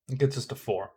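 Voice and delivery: yawning while talking. Real, not acted. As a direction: talk through a yawn. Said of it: "Excuse my yawning".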